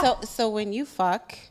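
"fuck" drawn into two syllables; own two-syllable fuck. Real, not acted. Asked by the panel to repeat her way. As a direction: say "fuck" as "fu-uck" again. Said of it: "Can you say it again?".

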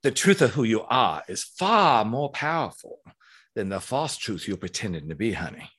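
lightly voiced drag diva, sassy; a hint of a drag diva preaching truth; stage talk, diva in the wig addresses crowd, light sass. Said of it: "she gets put on my beautiful little bald head".

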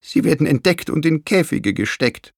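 understated tearful worry; sobbing. A narrator's reading. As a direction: dread the worst, gently acted. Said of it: "schluchzte sie".

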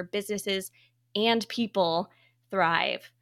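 polished host introduction with deliberate phrasing; guest bio read. Acted. Host introduces a trailblazing guest, formal bio read. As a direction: present the guest's credentials, item by item.

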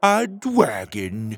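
slow, satisfied and settled; proudly. Acted. Petey showing off his dragon, proud and slow. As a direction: announce it with pride. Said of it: "Petey said proudly".

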